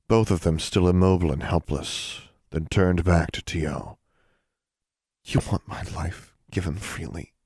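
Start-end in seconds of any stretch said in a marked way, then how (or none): 5.2-7.3 softer, near-whispered question; barely daring to ask. Acted. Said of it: "Her voice was barely a whisper".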